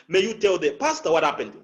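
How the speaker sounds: quick line with "pastor" and "what happened" stressed; emphasis on two things. Shown as a demonstration. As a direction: pitch peak on "pastor", falling through "what happened". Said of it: "the pastor and what happened".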